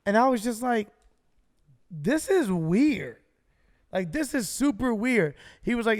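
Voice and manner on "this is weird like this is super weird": slow, drawn-out bewilderment; bewildered. Retold or imitated. Cleared rider reacting to strange Uber call, bewildered. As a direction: stretch each word in retold disbelief.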